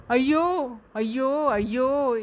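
high cries fading off; pained wails. A narrator's reading. Prisoner beaten at the station cries out. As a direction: cry out in pain, trailing away.

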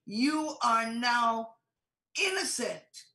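God's declaration. Retold or imitated. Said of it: "he still looks at us and says".

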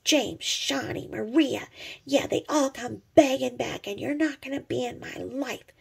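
a hint of her haughty voice; lightly mocking the YouTuber. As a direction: lightly parody her boasting. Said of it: "she's like".

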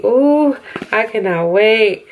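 high excited ooh. Real, not acted. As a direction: squeal with delight. Excited about palette.

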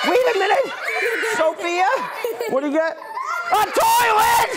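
hammed-up shocked exclamation; mock surprise. Magician feigns shock.

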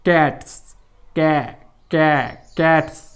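कॅट्स, then कॅ, कॅ, then कॅट्स whole; sound by sound. Shown as a demonstration. Teacher building the word for students, कॅ into कॅट्स with pauses. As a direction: break कॅट्स into stretched कॅ and rejoin it. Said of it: "असा उच्चार केलेला आहे मित्रांनो".

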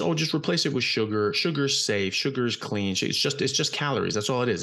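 a hint of a cheery ad voice brushing off worries; mock industry pitch. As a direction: play a glib sugar salesman selling it as harmless. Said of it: "that was the argument".

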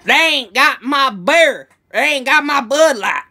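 loud, high, drawn-out mock redneck holler; American stereotype. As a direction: bellow it like a caricatured American beer lover. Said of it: "this full-on American stereotype".

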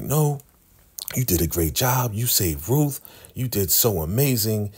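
lightly voiced, gush over a friend; lightly voiced praise.

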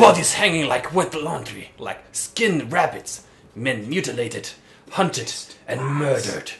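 slow, grim narration; dramatic reading. Acted. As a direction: read it like a dark story. Reads game narration.

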